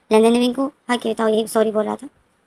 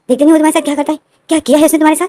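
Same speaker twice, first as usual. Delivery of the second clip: indignant; 4 semitones higher, 6 dB louder, faster than usual. A narrator's reading. John indignant about the brother.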